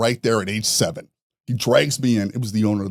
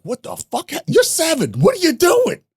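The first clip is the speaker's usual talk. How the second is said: high, loud, disbelieving yell; dad yelling at his seven-year-old, high and loud; shocked angry dad; 4 dB louder than usual. Retold or imitated. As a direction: blow up like a stunned father. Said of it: "he's like".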